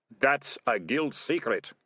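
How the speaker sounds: slow, emphatic warning snap; snapped. Acted. Senior ratcatcher silencing his deputy, snappish. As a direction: snap it with measured menace. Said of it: "Ratcatcher One snapped at him".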